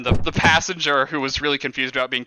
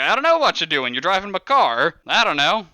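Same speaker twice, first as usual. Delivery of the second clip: dismissive boss; 3 semitones higher than usual. Acted. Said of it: "He's like".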